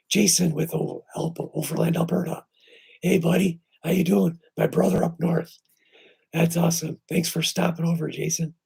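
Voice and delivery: excited greeting. Real, not acted. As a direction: call out a warm hello. Greeting a friend in chat.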